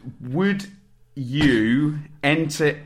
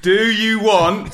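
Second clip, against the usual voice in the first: laughing; 6 semitones higher, 4 dB louder, slower than usual. Real, not acted. Laughing, building up to a shout.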